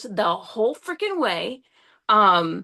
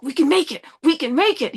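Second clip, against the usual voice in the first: higher-pitched, insistent repeats; retold urgent insistence; 5 semitones higher than usual. Driver urging partner to push on, retold insistence. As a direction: re-enact urging a partner onward.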